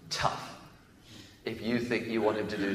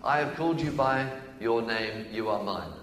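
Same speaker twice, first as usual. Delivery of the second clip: louder, higher, passionate pleading as God; excited voice of God; 4 semitones higher, 5 dB louder than usual. Acted. Preacher voicing God claiming his people, fervent and raised. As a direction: cry out God's longing for his people. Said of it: "Excuse me getting excited".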